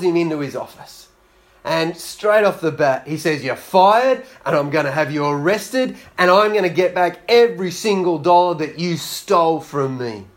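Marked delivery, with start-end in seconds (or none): 3.4-10.3 angry boss. Acted. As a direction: lay down the law like an enraged boss. Boss firing the employee.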